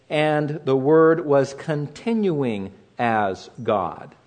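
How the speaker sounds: slow and deliberate, leaning on "continuing"; slow, stressed rendering. Shown as a demonstration. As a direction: spell out "continuing" slowly, word by word. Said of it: "we could translate it".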